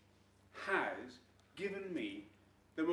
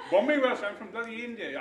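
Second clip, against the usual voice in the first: Bombay Welsh accent; 3 semitones higher, 10 dB louder than usual. Real, not acted. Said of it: "I can do Bombay Welsh".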